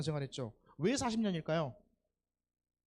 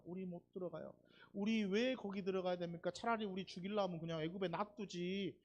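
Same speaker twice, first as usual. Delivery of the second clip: mock complaining; 2 semitones higher than usual. Preacher voices Israelites refusing to enter, mild mock complaining. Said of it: "이러면서 불평을 합니다".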